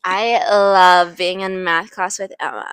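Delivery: slow, affected drawl demo; showing friends the affected drawl; mock fry talk. Shown as a demonstration. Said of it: "we're gonna show you what I mean".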